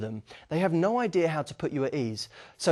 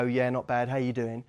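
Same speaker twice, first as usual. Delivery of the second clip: flat, lower, tired reply; low energy; 5 semitones lower, 4 dB quieter than usual. Shown as a demonstration. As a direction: answer like you couldn't care less. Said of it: "you come in low energy and go".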